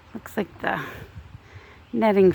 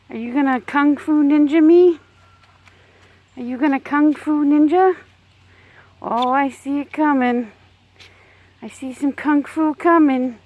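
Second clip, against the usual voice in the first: playful teasing; 5 semitones higher than usual. Real, not acted. Teasing a testy hen.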